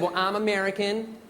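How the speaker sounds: put-on slow American accent; American woman. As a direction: imitate an American woman, drawn out. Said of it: "This American woman came up to me".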